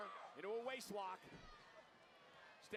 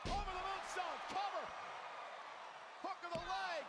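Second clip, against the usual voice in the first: excited call; 10 semitones higher than usual. Real, not acted. Pinfall call in live commentary.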